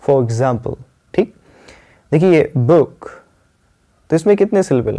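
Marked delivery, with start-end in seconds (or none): 0.1-0.8 for example with no hard r in "for"; correct pronunciation. Shown as a demonstration. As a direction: link "faw" into example in for example. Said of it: "for नहीं है". (for example, "र" हल्का रखकर)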